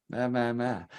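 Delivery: mock-snooty nonsense syllables; mocking grumble. Imitating whiskey people complaining about blends, mocking. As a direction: parody a fussy whiskey purist. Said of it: "they don't necessarily talk like that".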